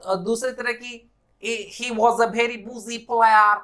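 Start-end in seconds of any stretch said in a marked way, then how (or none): 1.8-3.6 slow, lightly voiced Caribbean accent; mild West Indian cricketer accent; hint of a West Indian accent. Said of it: "इस तरह से बोलते हैं".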